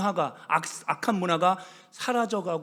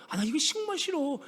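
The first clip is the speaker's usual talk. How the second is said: mock pleading grandma; 3 semitones higher than usual. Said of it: "이러는 거예요".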